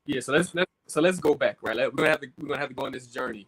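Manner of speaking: popping, crackling mic; crackly usb mic. Real, not acted. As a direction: talk through a crackling mic. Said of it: "your mic is popping too".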